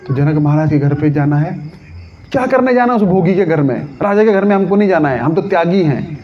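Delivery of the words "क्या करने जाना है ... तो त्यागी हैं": indignant refusal. Acted. नाराज़ साधु का जवाब.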